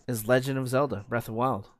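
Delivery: stiff robot voice reading the title; robot-like monotone. Real, not acted. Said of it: "you sounded like a robot right there".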